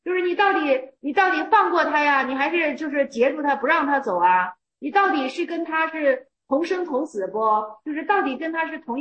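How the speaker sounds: emphatic challenging questions; pressing challenge. Real, not acted. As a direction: push the question hard at them.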